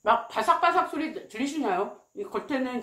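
talking while chewing food; covering mouth while eating; mouth full, chewing. Real, not acted. Seen 2: Hand covers mouth while chewing early on; holds crispy piece throughout.

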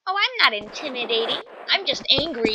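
put-on lightly girlish, mildly miffed protest; a hint of Barbie-like pique; mock-angry with a touch of Barbie; wannabe Barbie chick. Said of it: "sound like a wannabe Barbie chick".

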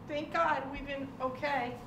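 ordinary talk

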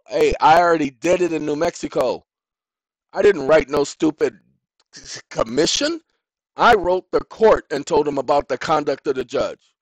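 acted indignant complaint; defiant retort. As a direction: push back loudly and indignantly. Acts out a defiant letter quote.

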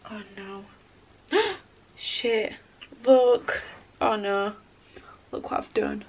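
sudden dismay over a broken powder. Real, not acted. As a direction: groan over the mess. Drops and breaks her powder.

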